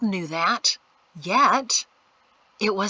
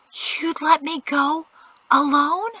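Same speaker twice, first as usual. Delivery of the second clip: disbelieving; 8 semitones higher, 3 dB louder, slower than usual. Acted. Shocked young woman.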